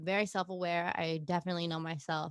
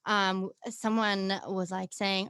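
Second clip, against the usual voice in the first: lively, louder British accent; 8 dB louder than usual. Shown as a demonstration. Guest tells hosts a work story, British accent. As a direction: tell the anecdote in a British accent. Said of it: "see how I just switched it off".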